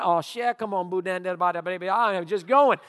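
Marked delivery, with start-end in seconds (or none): 0.0-1.9 a light imitation of fast Cajun bayou speech; loosely imitated Cajun patter; Cajun bayou talk. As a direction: mimic the cousin's Cajun jabber, half-hearted. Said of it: "he was full on".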